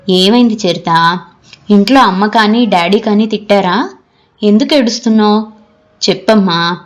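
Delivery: gently affectionate questioning. Acted. Lecturer comforting a crying student, mildly affectionate. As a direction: coax her with a touch of tenderness. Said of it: "ఆప్యాయంగా అడిగింది".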